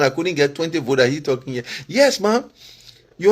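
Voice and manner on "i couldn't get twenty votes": lightly imitating a scoffing critic; mock quote of a critic. Quoting critics who mock his vote count, mildly scoffing. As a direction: toss off "I couldn't get twenty votes" as their jab. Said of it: "You say this one".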